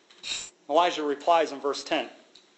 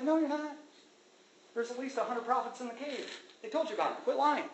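God rebuking; 8 semitones higher, 7 dB quieter than usual. Retold or imitated. God rebukes Elijah, imitated.

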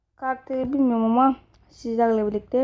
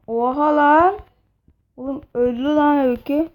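shocked outcry; 4 semitones higher, 7 dB louder than usual. Real, not acted. Character dies suddenly.

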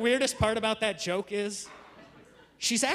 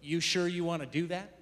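low, soft, grave question; hushed mock-serious check; all serious; 5 semitones lower, 5 dB quieter than usual. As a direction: imitate a wife quietly warning him. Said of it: "looked at me all serious".

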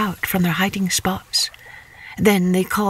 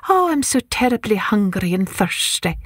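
put-on much higher, pleading old man voice; little old man; 7 semitones higher than usual. Old man begs the eldest son, pleading. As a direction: beg for cake like a frail old man. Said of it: "a little old man who said".

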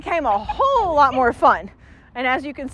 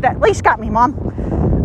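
voicing the dog; 5 semitones lower, much slower than usual. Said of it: "Oh, he said".

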